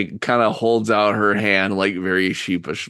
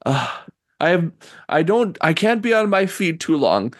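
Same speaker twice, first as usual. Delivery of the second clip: put-on old woman voice; 9 semitones higher, faster than usual. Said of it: "She's like".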